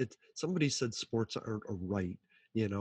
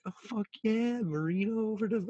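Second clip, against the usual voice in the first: higher, excited mock call; mock play-by-play; 10 semitones higher than usual. Answering the heckler with a fake Dolphins call. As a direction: call it like a hyped announcer. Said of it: "And I was like".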